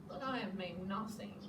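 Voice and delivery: soft, dejected admission; sad sigh. Acted. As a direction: sigh it out quietly. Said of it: "he adds with a sigh".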